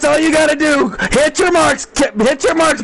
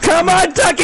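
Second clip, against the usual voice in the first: cheering; 3 semitones higher than usual. Real, not acted. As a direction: yell him home to the win. Rooting for the leader.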